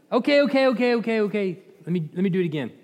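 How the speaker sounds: rattled-off okays, high then settling; hurriedly calm an angry boss; mock placating. Balaam placates the angry king.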